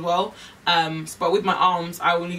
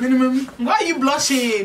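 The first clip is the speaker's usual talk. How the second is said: teasing laugh; 6 semitones higher, 6 dB louder than usual. Real, not acted. Teasing friend about blushing.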